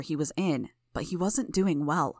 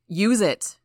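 loud frantic yell; father screaming for the EpiPen to be used; desperate shout; 3 semitones higher, 7 dB louder than usual. A narrator's reading. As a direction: scream the order at her. Mayor screaming at her to act.

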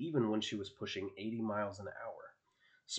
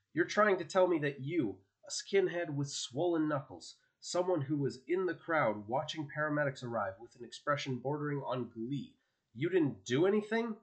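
higher, louder, incredulous challenge; shouted accusation; 5 semitones higher, 4 dB louder than usual. A narrator's reading. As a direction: throw the denial back at him, voice raised. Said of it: "As she shouted".

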